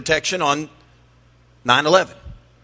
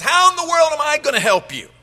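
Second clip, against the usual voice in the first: exasperated king; 2 semitones higher than usual. Acted. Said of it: "He says".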